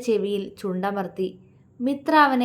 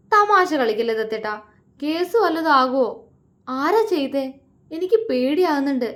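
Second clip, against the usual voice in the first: higher and louder anxious plea; uneasy, worried; 4 semitones higher, 3 dB louder than usual. Acted. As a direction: beg him to stop joking, scared. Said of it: "അവൾ അവനെ നോക്കി വല്ലായ്മയോടെ പറഞ്ഞു".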